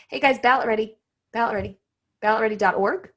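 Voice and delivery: talking around a pen in the mouth; pen in teeth. Real, not acted. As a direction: say it with a pen between your teeth. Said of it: "nice job with the, with the pen in your mouth".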